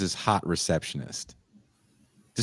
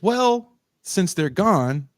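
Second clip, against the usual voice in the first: creepy father; 12 semitones higher, slower than usual. Retold or imitated.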